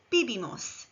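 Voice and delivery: "bibimos" with b sounds, falling; model Spanish verb. Shown as a demonstration. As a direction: say "bibimos" clearly for learners. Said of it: "Repeat after me".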